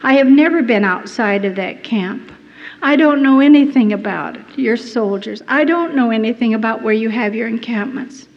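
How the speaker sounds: loud, urgent protest of innocence; retold pleading denial. Prisoner protesting innocence to the Japanese interrogator, loud and urgent. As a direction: plead your innocence, pushing hard. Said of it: "And I'd say".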